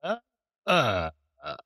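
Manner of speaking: grovelly voice. Shown as a demonstration. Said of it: "Let's get that grovelly sound".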